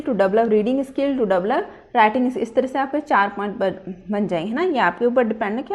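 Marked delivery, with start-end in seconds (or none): 0.0-2.4 slow dictation. Shown as a demonstration. Dictating aim points.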